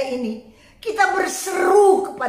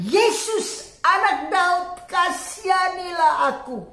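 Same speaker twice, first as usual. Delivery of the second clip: beggar's plea; 3 semitones higher than usual. Retold or imitated. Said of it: "Jadi ketika dia berkata".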